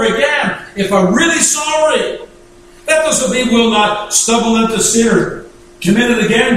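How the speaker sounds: urgent sermon delivery, pitch held high; emphatic preaching. Real, not acted. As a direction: press the point home from the pulpit.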